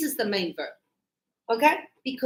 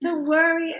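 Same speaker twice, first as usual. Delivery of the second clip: imitated soothing husband; 3 semitones higher than usual. Husband soothing his crying wife.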